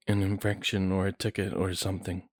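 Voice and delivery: usual speaking voice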